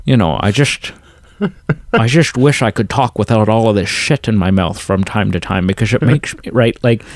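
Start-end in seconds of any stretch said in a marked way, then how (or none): 0.4-6.5 soft, slushy Scottish actor voice; Sean Connery impression. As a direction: mumble it like a Scottish actor with a full mouth. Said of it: "Whereas Sean Connery's just very".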